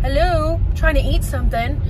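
loud, high frustrated outburst; exasperated shout. Real, not acted. Frustrated in traffic.

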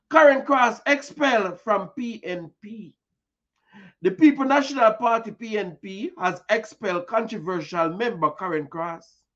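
reading a news report aloud, brisk and formal. Acted. Host reads the news report to listeners, formal news read. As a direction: read it like a bulletin.

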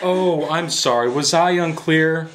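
slow, drawn-out mock apology; sarcastic apology. Kidnapper to confused captive, sarcastic. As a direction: draw it out with false politeness.

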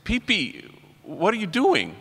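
put-on mildly astonished, asking the kid what he's up to; retold puzzled surprise. Priest addresses boy at door.

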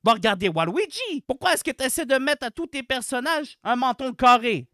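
loud, exasperated tirade; worked-up, indignant complaining; irritated rant. Real, not acted. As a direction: scold the developers in disbelief. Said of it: "c'était encore Marie énervée".

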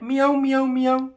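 a gentle playful meow; a touch of cat for baby. Pretend. Parent voices cat for baby.

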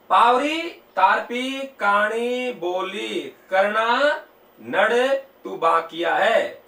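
slow, drawn-out recital, word by word; mnemonic recitation. Shown as a demonstration. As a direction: stretch each keyword out for students to memorise. Recites a memory-trick story. (धीमे, खींचकर याद कराने वाला पाठ)

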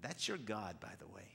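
a hushed aside to the room; whispered aside. Real, not acted. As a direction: lean in and whisper it. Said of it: "aside whispered to congregation".

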